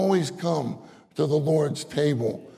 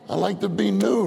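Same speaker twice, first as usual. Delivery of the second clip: raised, pleading prayer voice; eager praying believer; 5 semitones higher, 3 dB louder than usual. Pretend. Preacher voicing a believer's eager prayer. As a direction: beg the Lord like a hopeful believer. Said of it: "We say".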